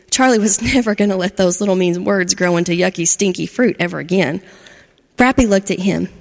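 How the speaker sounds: gentle storybook narration with voiced characters; reading to children. A narrator's reading. Storyteller reading to kids, lively and gentle. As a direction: tell it like a bedtime story to a class.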